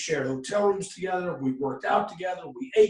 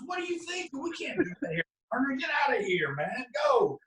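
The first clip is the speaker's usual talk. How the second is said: imitated angry dismissal; 8 semitones higher than usual. Acted boss rejecting the pitch, throwing out.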